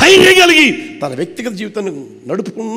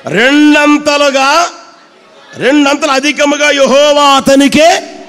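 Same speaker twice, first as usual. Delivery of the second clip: loud, higher, slow on రెండంతలుగా; read loudly; 4 semitones higher, 4 dB louder than usual. Shown as a demonstration. Preacher reading the Job verse aloud for the church, loudly. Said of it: "గట్టిగా".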